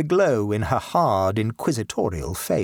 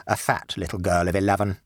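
low, dry and sulky correction; a rude boy adding a jibe; boy's sly addition; 3 semitones lower than usual. Acted. Victor correcting his mother, low and dry. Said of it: "added Victor by way of supplementary information".

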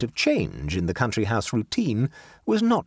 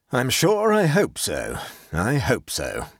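slow grumble, sinking on the repeat; hope it gloomily, dropping away; moody; slower than usual. Acted. Major doubts tomorrow's fox hunt, moody. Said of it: "said the Major moodily".

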